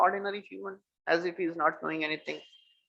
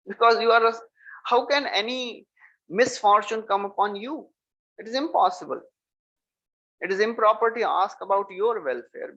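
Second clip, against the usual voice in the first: higher-pitched, earnest remonstrance; emphatic protest; 5 semitones higher than usual. Acted. Krishna tells the sage he needs no welfare wishes, emphatic protest. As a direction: protest it in a raised pitch, mildly acted.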